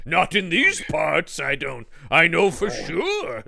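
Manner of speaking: bad liar. Doctor lying about wolves.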